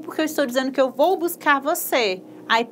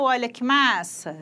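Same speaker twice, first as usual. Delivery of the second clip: normal talking voice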